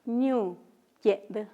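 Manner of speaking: "ñu" y luego "yed", separados por pausa; repetición lenta. Shown as a demonstration. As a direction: repite "ñu yed" sílaba por sílaba. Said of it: "¿podría repetir cómo se dice?". ("ñu... yed" pausado para que lo oigan)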